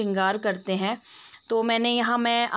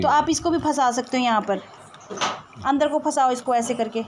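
raised voice; 3 semitones higher than usual. Real, not acted. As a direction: call out clearly to someone hard of hearing. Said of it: "ज़ोर ज़ोर से चिल्ला चिल्ला के बोलना पड़ता है".

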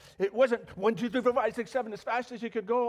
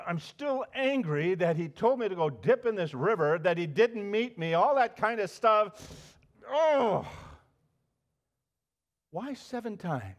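1 angry Naaman; 5 dB louder than usual. Pretend. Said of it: "Can we role play just a little?".

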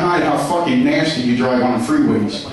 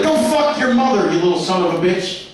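mock angry mother. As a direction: curse the son out like an Italian mom. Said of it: "she'd be like".

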